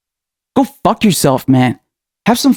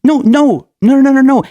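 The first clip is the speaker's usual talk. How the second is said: emphatic shout; 7 semitones higher than usual. Real, not acted. Furious rant against pundits.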